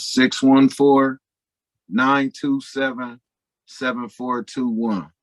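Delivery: slow, spaced-out digits with pauses between groups; slowly. Shown as a demonstration. Guest repeating his phone number for the audience, slowly. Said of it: "give your phone number one more time slowly".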